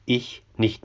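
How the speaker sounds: whispered, shrinking back; fearful refusal. Acted. Ruodi refusing Tell's plea to row out, frightened whisper. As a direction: breathe it out in fear. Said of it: "Und Ruodi sagt".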